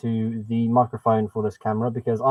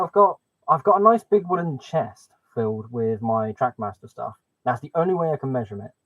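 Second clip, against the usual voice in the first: muffled, hollow pipe sound; talking through a pipe. Real, not acted. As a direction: voice coming down a pipe. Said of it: "You sound like you were talking through a pipe".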